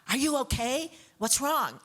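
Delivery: anxious check on a sick friend; worried. Retold or imitated. To Sid on the phone, worried and alarmed.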